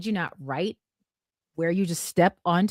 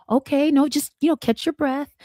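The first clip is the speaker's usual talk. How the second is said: flight attendant; 8 semitones higher, 4 dB louder than usual. Retold or imitated. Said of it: "And she's like".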